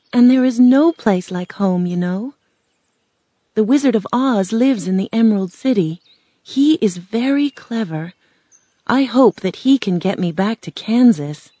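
put-on earnest girl full of hope; hopeful young Dorothy. Girl explains the Wizard to the scarecrow, hopefully.

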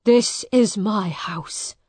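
loud, slow, firm protest; defiant claim. Acted. Miles defies Hugh in the family house, defiant. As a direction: stand your ground.

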